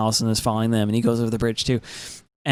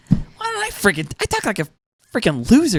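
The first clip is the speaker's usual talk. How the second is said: much higher, squealing self-mockery; mock despair; 7 semitones higher than usual. Jealous of a posh YouTuber, mocking her own voice. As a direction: wail at yourself with a laugh. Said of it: "And I'm like".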